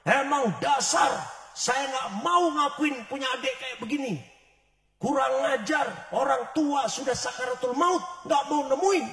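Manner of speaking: put-on angry older sister berating her sibling; angry scolding. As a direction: tell her off for not coming.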